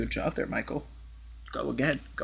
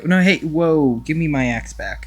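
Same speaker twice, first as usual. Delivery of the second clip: startled shout; 3 semitones higher, 8 dB louder than usual. Real, not acted. Man grabs his axe.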